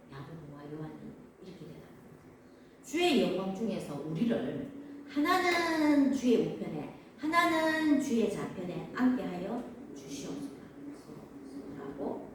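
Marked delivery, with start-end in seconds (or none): 2.8-12.3 mildly declaimed request, raised and drawn out; emphatic plea. Acted. Disciples asking Jesus for seats, emphatic plea.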